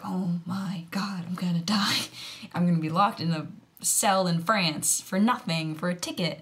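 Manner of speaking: mock-scared whisper building to a plea; faked fear. To the inspector, a faked frightened whisper. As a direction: sound on the edge of tears to get off. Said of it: "make my voice all shaky".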